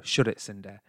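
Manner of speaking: low-key Bradford put-down; Bradford accent. Acted. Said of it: "do it in a Bradford accent".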